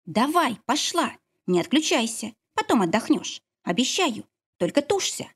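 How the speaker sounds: urging midwife. Acted. Midwife urges during labour. (настойчивая повитуха)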